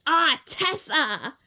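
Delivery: slow, milder reading voice; the calmer way it's read aloud; Gemma read normally. Shown as a demonstration. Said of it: "Instead of".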